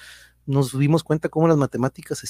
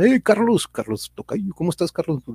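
excited greeting; 5 semitones higher than usual. Real, not acted. Host greets a listener.

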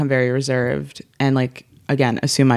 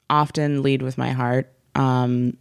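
vocal fry. Pretend. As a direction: drag it out in fry. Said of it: "should I do some vocal fry".

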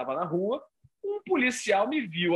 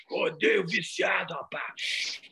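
slow preacher drawl; much slower than usual. Retold or imitated. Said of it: "Aí ele fazia assim".

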